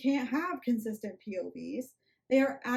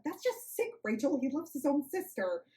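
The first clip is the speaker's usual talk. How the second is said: spat out; 4 semitones higher than usual. Acted. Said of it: "Gwen spat out the words".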